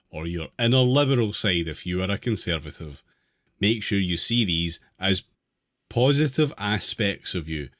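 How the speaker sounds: measured reading aloud of an article. Real, not acted. Host reading an article to the group, measured read-aloud. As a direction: read it out clearly, phrase by phrase.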